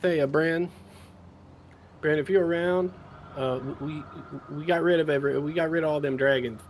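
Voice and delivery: breathy voice. Acted. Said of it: "in a very breathy voice".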